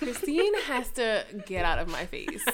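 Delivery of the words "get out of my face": laughing. Real, not acted. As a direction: talk through rising laughter. Laughs at what Christine did.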